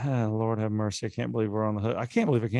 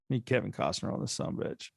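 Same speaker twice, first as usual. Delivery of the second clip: whisper; 6 dB quieter than usual. Real, not acted.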